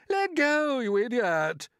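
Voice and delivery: high, loud furious yell; angry shout. Acted. Centipede yelling at James to let go, loud and angry. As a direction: bark it out as he kicks free. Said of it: "shouted the centipede".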